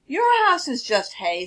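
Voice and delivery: mock the hay house; scoffing wolf. Wolf sneers at Hal's hay house. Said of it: "said the wolf".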